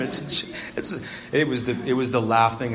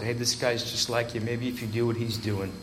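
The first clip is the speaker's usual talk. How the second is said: soft hopeful inner voice; quiet inner voice, very soft; 6 dB quieter than usual. Retold or imitated. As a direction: let the voice in your head whisper hope. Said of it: "the voice in my head said".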